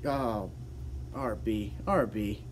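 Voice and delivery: normal talking voice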